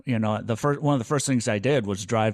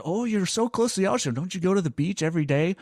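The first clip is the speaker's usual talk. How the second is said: higher mock-quoting voice; imitating people; 8 semitones higher than usual. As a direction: parrot people in a raised pitch. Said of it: "everybody says".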